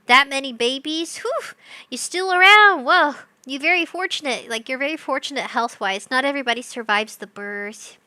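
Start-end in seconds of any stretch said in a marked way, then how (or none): 1.2-3.1 amazed. Real, not acted. Amazed at survivors.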